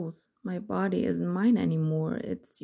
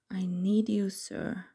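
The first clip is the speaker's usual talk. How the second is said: desperate pleading; slower than usual. Acted. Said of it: "desperation seeping into my words".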